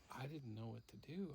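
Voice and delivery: ordinary delivery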